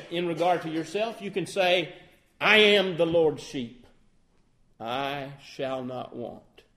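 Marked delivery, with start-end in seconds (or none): 2.4-6.6 self-assured claim, leaning on I; boastful. Shown as a demonstration. Preacher mocking a boastful believer, a touch smug. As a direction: say it as a proud boast. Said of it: "That sounds a little bit boastful".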